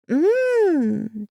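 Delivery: put-on high little girl's mmm; a small girl tasting soup; child's voice. A narrator's reading. Daughter tasting the soup, high child voice. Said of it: "she said".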